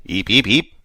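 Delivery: breathless little eeps; whispered creature squeak. A narrator's reading. Creature reply.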